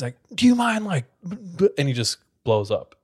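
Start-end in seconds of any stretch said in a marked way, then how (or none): 0.3-1.7 high, exasperated stammer; a teacher sputtering with rage; angry teacher. Retold or imitated. Teacher blows up at student over pencil, high sputtering.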